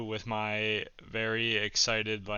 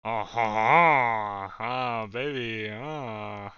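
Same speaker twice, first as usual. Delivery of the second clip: mock seductive; 4 dB louder, much slower than usual. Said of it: "but actually seductive".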